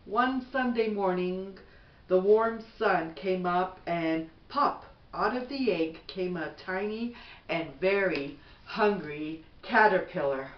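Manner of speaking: gentle, even bedtime storybook read; reading to children. Acted. Mother reading a bedtime book to her son, gentle storybook voice.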